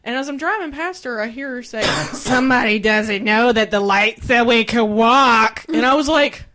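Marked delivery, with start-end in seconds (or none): 2.1-5.6 mocking whiny voice. Mocking the pedestrian's remark.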